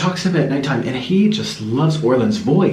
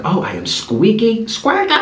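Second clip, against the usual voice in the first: squeaky on the second squeaky, jumping much higher; mocking her squeaky voice; 7 semitones higher than usual. Hearing her own recording, she mocks it with a squeaky pitch jump. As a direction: parody how shrill she sounds on a recording. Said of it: "I can't stand my voice".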